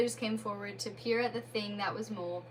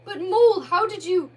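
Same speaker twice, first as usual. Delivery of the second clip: a hint of a different Rat voice, louder; lightly voiced Rat; 9 semitones higher, 12 dB louder than usual. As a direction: Rat peers at the shape, unsure.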